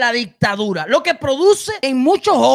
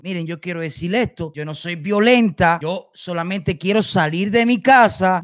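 put-on quoting the girl calmly; 8 semitones lower than usual. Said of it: "vieron cómo esta muchacha se expresó".

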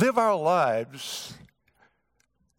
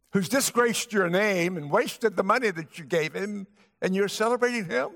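indignant; 4 semitones higher than usual. Acted. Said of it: "this record says he was angry".

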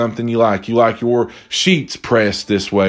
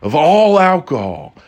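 imitated server; 4 semitones higher, slower than usual. Imitated server announcing bad news, drawn out.

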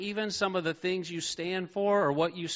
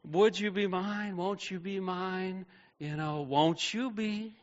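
gentle Mister Rogers; 4 semitones higher than usual. Retold or imitated. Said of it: "he says all the time".

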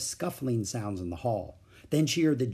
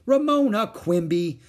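scolding mother; 8 semitones higher, 6 dB louder than usual. A narrator's reading.

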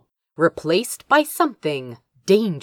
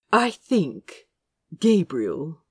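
soft, weighty disapproving tone; heavy disapproval; 4 dB quieter than usual. A narrator's reading. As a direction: disapprove quietly and heavily. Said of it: "with heavy disapproval".

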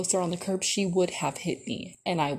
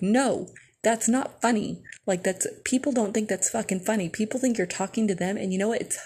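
angry rant. Retold or imitated. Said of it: "she's, like, going off on us".

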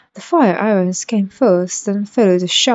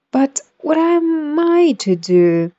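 pleading; 8 semitones higher, slower than usual. Acted. Alice pleading.

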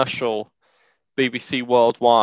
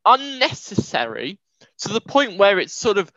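exasperated rant; 7 semitones higher than usual. Real, not acted. Ranting about a hateful character.

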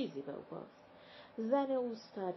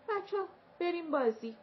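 cheerful call; 7 semitones higher, 4 dB louder than usual. A narrator's reading. Older sister cheering the children.

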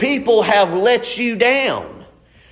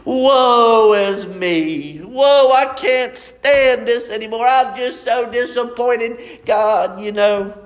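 hammed-up drama queen lament; dramatic sigh. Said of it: "drama queens".

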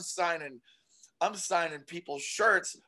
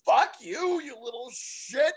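mock snap at kid; 7 semitones higher than usual. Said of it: "repeated retort".

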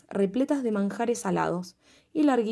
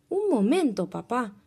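cartoon princess; 3 semitones higher than usual. Princess stops the king.

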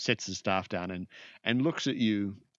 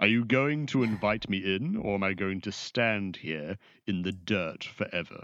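lightly voiced formal, imperious visitor; a hint of a haughty mage demanding entry; haughty sorcerer.

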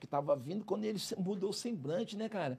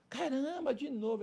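mother's panic; 10 semitones higher, 4 dB louder than usual. Retold or imitated. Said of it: "Ela começou a chorar".

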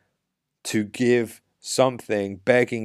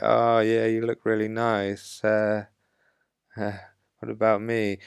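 needy compliment. Shown as a demonstration. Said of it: "You don't just say it like".

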